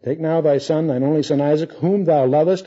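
deliberate weight on "thine only son" and "whom thou lovest"; stress on each phrase. Shown as a demonstration. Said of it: "notice the emphasis".

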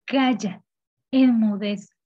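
loud, firm command to the sea. Acted. Jesus rebuking the wind and sea, loud and firm.

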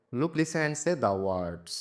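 very slow, word by word; slow reading. Shown as a demonstration. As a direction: read the instruction slowly for pupils. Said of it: "teacher reads instruction aloud". (খুব ধীরে, শব্দে শব্দে পড়া)

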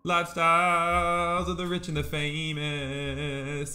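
slow, grand TV host announcement; Robin Leach. Retold or imitated. Streamer echoing a chat joke, slow showy host voice. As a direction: roll it out like a celebrity show host. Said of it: "Sounded like Robin Leach".

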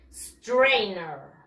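"Strainer" low, from a clear initial s; model pronunciation. Shown as a demonstration. Teacher answers how to say colador, model pronunciation. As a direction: say "Strainer" carefully, pitch falling low. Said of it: "How do you say colador".

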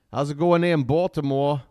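put-on loud, botched stab at a Baltimore accent; badly faked Baltimore accent, called out cheerily; failed Baltimore accent. Streamer greeting Melanie in chat, attempting a Baltimore accent. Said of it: "that's not a Baltimore accent".

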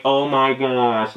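drawn-out, slow "Oh my gosh" in disbelief; awed oh my gosh. Retold or imitated. A fan reliving the ending, slow stunned awe. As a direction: stretch "Oh my gosh" out slowly, stunned. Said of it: "I'm like".

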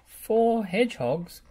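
startled gulp. A narrator's reading. Wendy hears from Bob, startled. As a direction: gulp it in disbelief. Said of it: "gulped Wendy".

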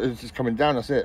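just state it, no fuss; calm shrug. Retold or imitated. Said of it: "I was like".

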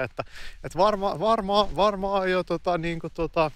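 a friend marvelling at his clever mate; admiring buddy voice. Retold or imitated. Buddy praising friend's preparedness.

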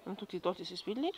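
hiccups breaking the phrase; speaking through hiccups. Real, not acted. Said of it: "chiedo scusa il singhiozzo".

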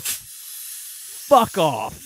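whispered, awed fuck off; whispered disbelief. Retold or imitated. Retelling meeting his idol, whispering in awe. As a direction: breathe the words out in awe. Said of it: "And I was like".

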